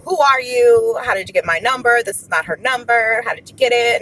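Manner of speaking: imitating a persistent, suspicious woman on the phone; persistent questioning. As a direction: fire off retold demands, loud at the start. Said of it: "the lady was persistent".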